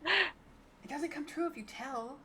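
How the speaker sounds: giggling through a teasing rule; laughing. Real, not acted. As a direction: laugh while warning.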